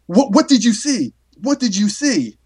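mock-eager demand for an answer; eager questioning. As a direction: act out urgent curiosity, pitch leaping then falling. Retelling narrator's eager questioning.

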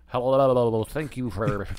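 wobble the words like a vibration; babbling, vibrating mouth sounds. Shown as a demonstration. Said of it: "So it'd be vibration".

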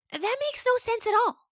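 very high, loud goat scoff; skeptical goat. Acted. Dandy objecting to the story, very high. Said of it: "Dandy said".

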